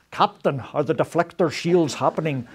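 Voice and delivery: a hint of a bad Scottish accent, as a Star Trek engineer; lightly put-on Scottish brogue, jokingly. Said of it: "sorry for that really bad Scottish accent".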